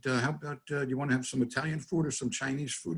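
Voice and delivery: softly offering a choice. Retold or imitated. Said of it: "I lowered my voice".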